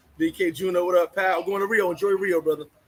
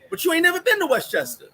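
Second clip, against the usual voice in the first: incredulous retort; 9 semitones higher, 3 dB louder than usual. Real, not acted.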